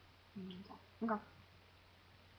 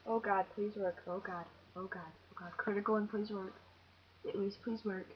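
hushed, anxious begging under the breath; nervous pleading; 3 semitones lower, 6 dB quieter than usual. Real, not acted. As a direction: plead quietly for luck. Nervously begging the game attack to work.

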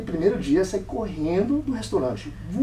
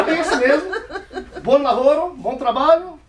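much higher and louder, laughing; hammed-up bluff; 8 semitones higher, 7 dB louder than usual. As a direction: fake confident reply to the boss. Bluffs approval with the boss. (Mike finge entender o dono, blefe exagerado)

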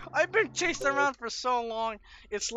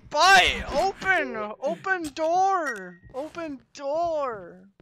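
1 panicked shout; 6 semitones higher, 3 dB louder, much slower than usual. Real, not acted. Fleeing monster in horror game.

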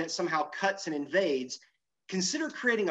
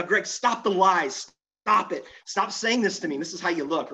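mock audience protest; 3 semitones higher, 3 dB louder than usual. Audience to speaker about his water talk, mock protest. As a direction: playfully voice the crowd begging him to stop. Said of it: "y'all are saying right now".

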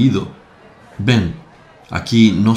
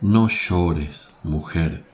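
lower, much softer consoling; gentle comfort; 4 semitones lower, 5 dB quieter, much slower than usual. Acted. Jesús comforting the weeping mother, soft and tender. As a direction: hush her grief tenderly.

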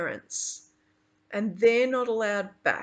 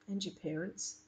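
softer, gentle condolence; quietly; 11 dB quieter than usual. Acted. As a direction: say it softly to a grieving friend. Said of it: "I say quietly".

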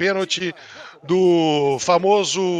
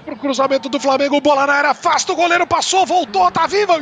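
fast, rising, louder commentary; play-by-play; 6 semitones higher, 5 dB louder than usual. Real, not acted. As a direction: call the action as it builds. Live play-by-play.

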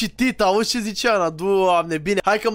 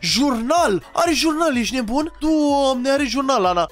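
higher-pitched, excited exclaiming; excited discovery; 4 semitones higher, slower than usual. Real, not acted. Gamer tells friend about a found journal, excited. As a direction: exclaim it like a thrilling find.

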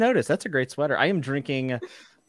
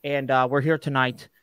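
a hint of a fumbling famous author going live; Jim R R Martin impression; 4 semitones higher than usual. Host greeting his stream as a famous author, lightly voiced. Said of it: "Jim R R Martin here from the Fantasy Network".

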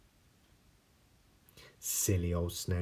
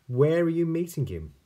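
owl voice; 11 semitones higher, 10 dB louder than usual. Acted. Owl asks mouse.

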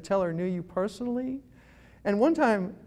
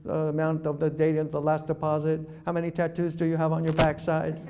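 cold interrogation; 4 semitones lower than usual. Retold or imitated. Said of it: "instead he'd say".

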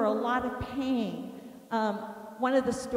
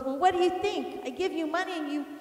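quick, higher-pitched retold griping; sarcastic husband; 4 semitones higher, faster than usual. Husband griping to wife about groceries, sarcastic. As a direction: mimic a husband's aggrieved comeback. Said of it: "he talked sarcastically to me".

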